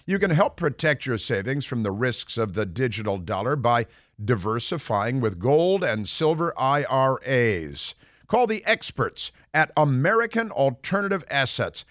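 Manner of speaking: upbeat radio ad read. Acted. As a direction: sell it like a radio spot. Host reads sponsor ad.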